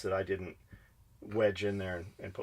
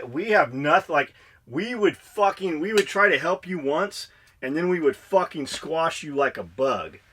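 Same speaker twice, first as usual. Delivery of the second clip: louder, higher, forceful scolding; heated rant; 4 semitones higher, 5 dB louder than usual. Real, not acted. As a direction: lay into lazy listeners with raised voice. Heated rant at idle listeners.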